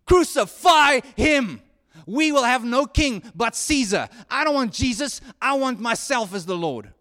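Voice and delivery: loud, furious crowd yell, slow and drawn out on the first cry; mob screaming. Retold or imitated. Crowd in Jesus' day yelling for crucifixion: loud furious shout. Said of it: "you'd be the one screaming".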